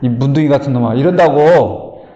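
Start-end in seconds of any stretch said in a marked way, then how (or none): 0.0-0.9 mock angry cursing. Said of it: "딱 그런 일이 닥치면 뭐라고 그래".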